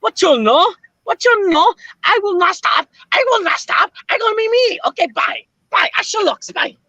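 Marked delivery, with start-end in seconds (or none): 0.0-4.8 low put-on voice. Voice called freestyle, Senor Baxter.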